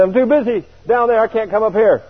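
high plea to stay on earth; pleading protest. Retold or imitated. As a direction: beg off again. Repeated protest to Jesus.

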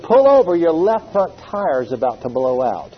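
urgent warning from above; voice of God. Retold or imitated. The Lord repeats warning.

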